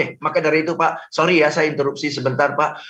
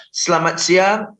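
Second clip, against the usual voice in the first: lemas; slower than usual. Shown as a demonstration.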